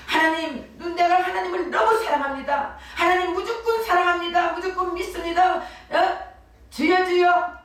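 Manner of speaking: 높은 목소리로 외치듯 부르짖는 기도; 주여를 외치는 과장된 신앙 고백; 열광적인 기도 흉내. Retold or imitated. (하나님 앞에 부르짖는 신자, 높고 힘차게 외치듯)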